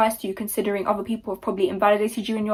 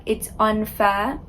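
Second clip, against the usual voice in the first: mocking quote; much slower than usual. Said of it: "when you start saying things like".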